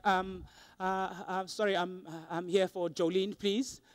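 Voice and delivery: low, soft and halting; meek, stumbling murmur; hesitant visitor. Retold or imitated. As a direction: timidly ask for someone at reception. Acts out hesitant visitor at reception.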